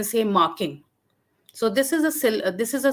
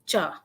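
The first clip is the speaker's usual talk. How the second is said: brief "cha" set low in pitch; 4 semitones lower, 4 dB quieter than usual. Shown as a demonstration. Lecturer giving the word for desire, "cha" in low tone. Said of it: "a syllable bearing a low tone".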